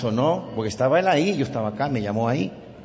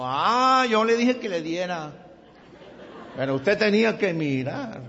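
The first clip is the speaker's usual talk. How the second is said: higher, mock indignant scolding; a touch of an angry attendant; retold angry reproach; 7 semitones higher than usual. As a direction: play the irate parking attendant, lightly. Tan bravo.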